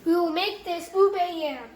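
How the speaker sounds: losing voice, hoarse and strained. Real, not acted. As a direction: talk through a worn-out, hoarse voice. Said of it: "I'm kinda losing my voice".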